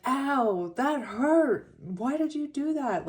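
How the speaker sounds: high, loud pained beast. Retold or imitated. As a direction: yelp it out like a hurt beast. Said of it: "he's like".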